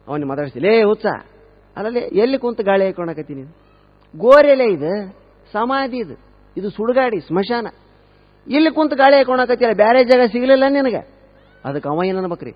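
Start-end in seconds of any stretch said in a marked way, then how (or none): 0.6-11.2 scolding shout. Acted. Teacher scolding man on grave.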